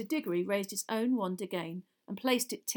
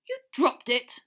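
disbelief; 5 semitones higher, 8 dB louder, slower than usual. A narrator's reading. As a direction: throw it back in disbelief. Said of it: "repeated Mister Diggory in disbelief".

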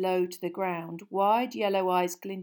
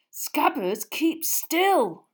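sharp, higher, louder command; urgent hiss; 8 semitones higher, 6 dB louder, much slower than usual. Acted. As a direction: snap at the rat under your breath. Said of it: "Ron hissed".

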